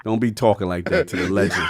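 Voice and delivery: laughing scold. Real, not acted. Laughing scold over crude chat.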